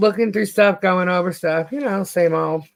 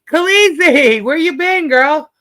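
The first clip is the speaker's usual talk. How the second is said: higher, bright call to a long-missed friend; excited greeting; 10 semitones higher, 5 dB louder than usual. Real, not acted. Greeting a regular who's been away, thrilled.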